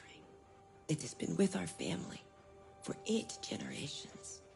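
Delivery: put-on soft secretive whisper to a child; tender whisper. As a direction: share a family secret gently. Mother whispers to son.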